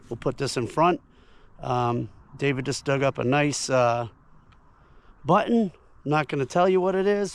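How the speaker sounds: lost voice, hoarse talk; rasping through a worn-out voice. Real, not acted. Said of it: "I've lost my voice".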